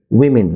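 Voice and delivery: উইমেন said clearly for students to repeat; model pronunciation. Shown as a demonstration. Teacher asks students to repeat উইমেন. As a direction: say উইমেন carefully for others to echo. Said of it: "আমার সাথে বলুন".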